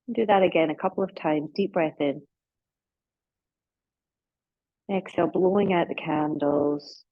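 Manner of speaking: unhurried yoga nidra guidance with long pauses; guided relaxation. Real, not acted.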